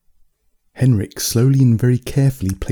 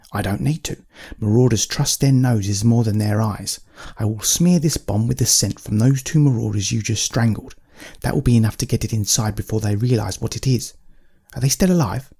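lightly voiced creature; 2 semitones higher than usual. Trubernicus voiced across a long run.

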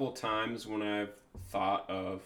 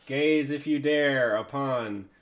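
horror host; 4 dB louder than usual. Acted. Reading spooky host text aloud.

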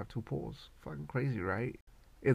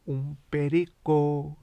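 slow, louder parrot call; parrot squawk; 3 semitones higher, 6 dB louder, slower than usual. Shown as a demonstration. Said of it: "I sound like a fucking bird".

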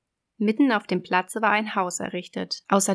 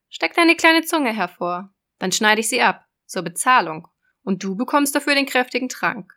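loud, raised sea witch; 2 semitones higher, 5 dB louder than usual. Acted. Witch voice in fairy tale.

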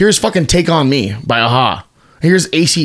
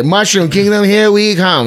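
lightly imitated Mario accent, pitched up; a hint of cartoon Italian accent; 5 semitones higher, slower than usual. Recalling the Mario movie commercial, light Mario accent. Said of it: "they do that accent".

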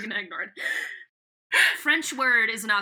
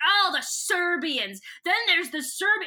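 higher, drawn-out imitation of a ranting aunt; mock diatribe; 5 semitones higher than usual. Imitating racist aunt going off about the Serbs, mock diatribe. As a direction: launch into a mock rant, stretching the words. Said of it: "she'll go on a diatribe".

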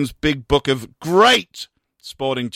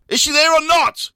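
raised, higher voice demanding an answer; shouted; 13 semitones higher, 5 dB louder than usual. A narrator's reading. Manager shouting down the phone at the maid, raised and high. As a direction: call down the phone in rising anger. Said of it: "the player manager shouted".

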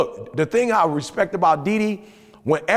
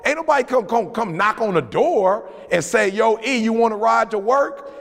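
Bob scolding; 6 semitones higher than usual. Retold or imitated. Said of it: "He said".

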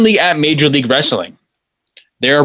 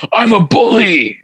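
mock scream; 6 semitones higher, slower than usual. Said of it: "he just screams at the top of his lungs".

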